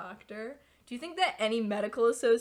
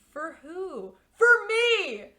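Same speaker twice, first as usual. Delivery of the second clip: put-on much higher and louder, a kid's indignant yelp; childish outburst; 9 semitones higher, 9 dB louder, much slower than usual. Child to brother, demanding a house for herself, loud indignant squeal. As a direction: squeal it like a spoiled seven-year-old.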